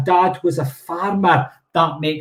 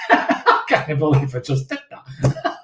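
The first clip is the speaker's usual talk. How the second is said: laughing; slower than usual. Real, not acted. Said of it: "Now I'm snorting like a pig".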